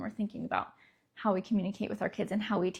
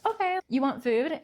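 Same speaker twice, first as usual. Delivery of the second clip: higher, gently checking question; helpful host; 4 semitones higher than usual. Acted. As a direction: kindly offer to a struggling guest. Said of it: "that same attitude and tone of voice".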